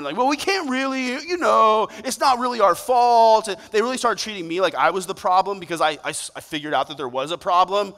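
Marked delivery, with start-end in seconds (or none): 0.2-3.5 evasive excuses. Retold or imitated. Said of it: "giving you all the runaround".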